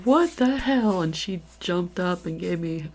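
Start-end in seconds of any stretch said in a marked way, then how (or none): 0.0-1.0 high, loud retold disbelief; shocked exclamation. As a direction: exclaim it loudly, imitating the stunned friend. Friend's shocked reaction repeated.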